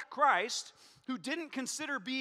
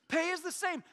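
laughing repeat; 7 semitones higher, 3 dB louder than usual. Shown as a demonstration.

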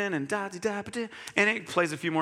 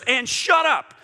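sudden louder, higher "shut up"; curt command; 6 semitones higher, 6 dB louder, slower than usual. Retold or imitated. Preacher voicing the Holy Spirit, a sharp louder command. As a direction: cut yourself off sharply.

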